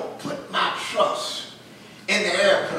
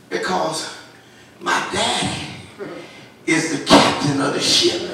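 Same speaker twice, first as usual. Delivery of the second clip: put-on calm child; 2 semitones lower, 5 dB louder than usual. Boy explaining his daddy is captain, calm. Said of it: "He said".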